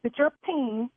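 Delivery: angry. Real, not acted. Caller furious at the caterer.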